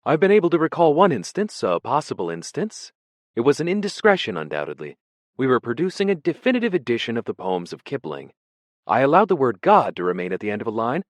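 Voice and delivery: high, loud, fluttery scholar's voice; a vague, startled prisoner greeting an old colleague; nervous poet. Acted. Ampleforth greets Smith in the cell, high and startled.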